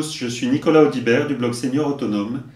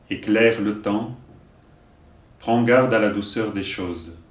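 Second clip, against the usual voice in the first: poem recitation. Acted. Teacher reciting a poem to learners, measured recitation. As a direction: recite each line deliberately, pausing between verses.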